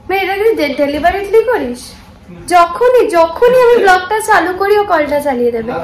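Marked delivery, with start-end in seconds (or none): 2.5-5.7 half-joking grumble, a bit louder; mock complaint. Real, not acted. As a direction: tease him about the tap, louder. Complains about roommate running tap. (বন্ধুকে হালকা ঠাট্টার অভিযোগ, একটু জোরে)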